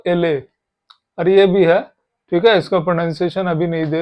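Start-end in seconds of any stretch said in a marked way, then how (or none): 0.1-0.4 एले said as eh-leh; letter L in Spanish, एले. Shown as a demonstration. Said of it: "L को".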